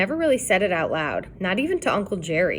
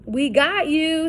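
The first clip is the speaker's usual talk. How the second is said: shout; 8 semitones higher, slower than usual. A narrator's reading. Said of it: "Sid shouted".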